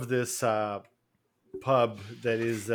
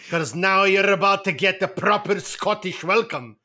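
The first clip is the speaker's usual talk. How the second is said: higher, laughing put-on threat; laughing mock-sinister welcome; mock Scottish menace; 5 semitones higher, 4 dB louder than usual. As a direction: tease like a villain welcoming a guest. Playful threat in character.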